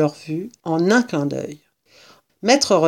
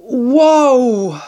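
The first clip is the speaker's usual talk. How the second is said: long, loud, higher wow; panting wow; 6 semitones higher, 6 dB louder than usual. A narrator's reading. Cub after a gulp of strong cider, amazed gasp. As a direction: let out a big drawn-out wow.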